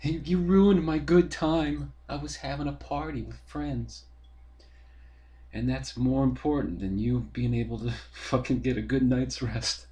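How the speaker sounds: sarcastic mock of the party guy; mocking whiny neighbor. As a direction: mimic the rude neighbor with scorn.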